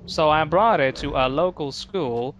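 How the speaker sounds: slow, grand storyteller voice; dramatic reading voice. Retold or imitated. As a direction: read it like a solemn villain's letter. Reads dad's letter in dramatic voice.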